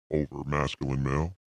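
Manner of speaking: over-the-top masculine voice filter; deep male voice effect. Shown as a demonstration. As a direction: voice changer set to macho male. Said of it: "your male".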